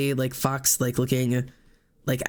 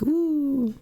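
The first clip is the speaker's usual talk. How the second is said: much higher spooky ooh; ghostly ooh; 12 semitones higher than usual. Shown as a demonstration. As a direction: moan it like a little ghost. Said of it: "like, a little".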